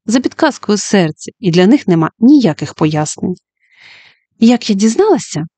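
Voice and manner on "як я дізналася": smiling. Acted. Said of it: "усміхнулася Джуді".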